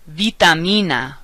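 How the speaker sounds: "Vitamina" as "bee-tah-MEE-na"; Spanish "Vitamina", V softened toward B; Spanish soft V. Shown as a demonstration. Teacher modelling V words, soft V in "Vitamina". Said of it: "V sounds more like the letter B".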